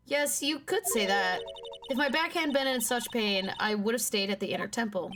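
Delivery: lightly voiced country nun testifying; country nun witness. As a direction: recount it as a chatty nun character.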